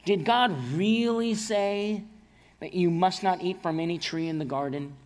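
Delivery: a hint of the sly serpent questioning Eve; voicing Satan. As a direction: lean into the serpent's doubt, drawing it out. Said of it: "he asks Eve".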